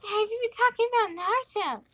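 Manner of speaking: helium voice. Real, not acted. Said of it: "It wore off".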